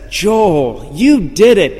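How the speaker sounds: loud, rising congratulatory call; booming imitation of a race announcer. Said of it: "the P A guy".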